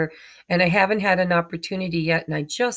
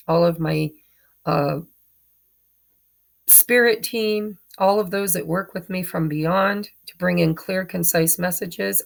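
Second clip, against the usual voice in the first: prayer. Acted. Opening prayer before reading.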